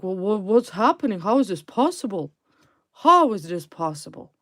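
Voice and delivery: loud mock outrage of baffled enemies; mad disbelief. Reader mimics the client's mad enemies, loud disbelief. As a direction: imitate mad rivals, loud and incredulous. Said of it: "They're mad. They're like".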